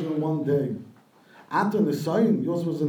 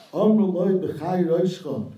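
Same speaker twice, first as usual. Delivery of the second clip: pleading; 3 semitones higher, 3 dB louder than usual. Retold or imitated. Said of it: "she pleaded".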